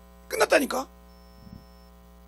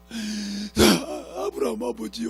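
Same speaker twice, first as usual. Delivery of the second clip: rich man in torment; much slower than usual. Retold or imitated. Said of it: "부자가".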